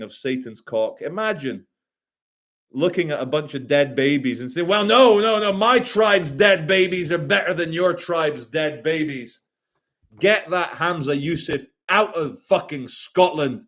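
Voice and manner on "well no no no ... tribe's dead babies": mock voice. Mocking a callous speaker.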